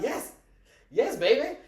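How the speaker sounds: put-on high, laughing sarcastic yes baby; mock sweet agreement, laughing. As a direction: needle him with a sing-song yes. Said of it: "We walk around all day like".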